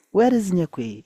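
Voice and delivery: a furious father calling for his daughter; father angrily asks where Nyekwi is; angry father. A narrator's reading. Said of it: "He was very furious and angry".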